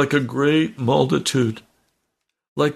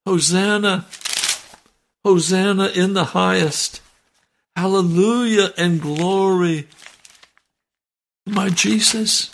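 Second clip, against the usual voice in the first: higher, ringing hosanna praise; joyful praise shout; 6 semitones higher than usual. Pretend. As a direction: cry out hosanna in rapture. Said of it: "I'll be able to shout".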